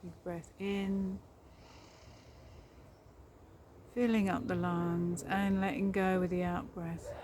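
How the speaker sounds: calm meditation guide with long pauses; guided meditation. Real, not acted. Guiding listeners along a forest path, guided meditation voice. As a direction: lead them gently inward, leaving space after each phrase.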